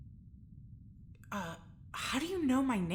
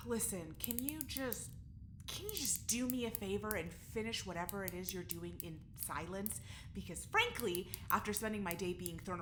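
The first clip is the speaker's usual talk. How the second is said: tired plea; 6 dB quieter than usual. Acted. Jules tired, asking for quiet.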